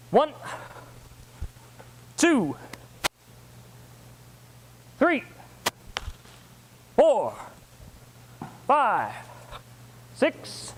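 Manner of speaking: spaced counts called out to a class; drill count call. Real, not acted. Martial arts instructor counting moves for students, drill count call. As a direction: call each number sharply, leaving long gaps.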